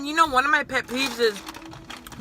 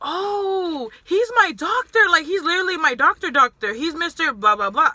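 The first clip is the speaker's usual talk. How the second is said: higher, fast gushing coworker voice; lightly imitating an excited coworker; mock gushing coworker; 4 semitones higher than usual. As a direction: gush about him like a fan. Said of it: "One of the employees was like".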